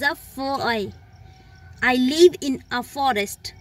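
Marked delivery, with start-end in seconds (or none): 1.8-3.5 very slow, every word laid out; slow example read. Shown as a demonstration. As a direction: read it slowly so learners catch the a. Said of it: "लेकिन जब मैं forest की बात कर रही हूँ". (बहुत धीमे पढ़ा गया उदाहरण वाक्य)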